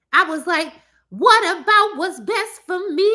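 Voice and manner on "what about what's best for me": quoting Dreamgirls line. Retold or imitated. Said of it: "I was just quoting Dreamgirls".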